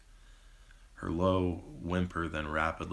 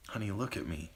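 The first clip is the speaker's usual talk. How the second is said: calm; 3 semitones higher, 3 dB quieter, faster than usual. Acted. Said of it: "Allison said calmly".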